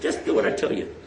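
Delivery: low hushed whisper, just for him; a retold quiet whisper to the young man; whispered aside. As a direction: slip him the order under your breath. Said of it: "I whispered to him".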